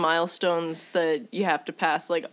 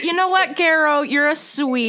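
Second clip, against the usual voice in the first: higher, laughing, lightly voiced charmed customer; mock sweet customer, a touch louder; 6 semitones higher, 4 dB louder than usual. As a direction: coo it back with a laugh.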